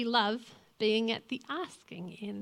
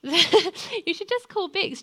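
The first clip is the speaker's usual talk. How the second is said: high, loud, drawn-out quote after a laugh; retold amused urging; 8 semitones higher, 8 dB louder, slower than usual. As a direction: imitate a husband urging, laughter in the voice. Repeats husband's suggestion after laughing.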